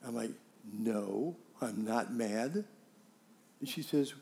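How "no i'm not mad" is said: low, slow retold denial; calm denial. Husband answers wife asking if he is mad, calm denial. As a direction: deny it evenly in a low voice. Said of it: "Are you mad?".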